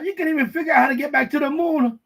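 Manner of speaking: mock jeering shout at Americans; hammed-up foreign mockery; mocking foreigners. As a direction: taunt them like the laughing world. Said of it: "They're probably laughing at us right now".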